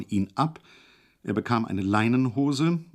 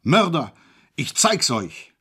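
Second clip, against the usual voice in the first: loud, higher bawl, then slow; 5 semitones higher, 5 dB louder, slower than usual. Acted. Hejula alone in isolation bawls loudly at his captors. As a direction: bawl at the walls in rage. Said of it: "Nun war er allein und gröhlte".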